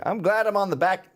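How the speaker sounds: old dude in a put-on Southern accent. Old Knight of Columbus on his age, Southern accent. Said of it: "I'm doing a Southern accent".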